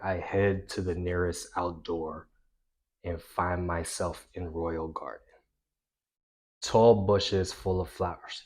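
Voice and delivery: flat, dull read-aloud; monotone reading. Shown as a demonstration. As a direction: read it like it bores you. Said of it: "you can't just read it monotone".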